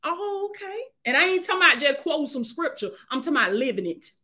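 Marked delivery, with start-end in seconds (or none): 0.0-0.8 mocking the enemy. Preacher mocking the enemy's dismissive reply. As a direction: toss it off like the enemy brushing you off. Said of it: "the enemy say".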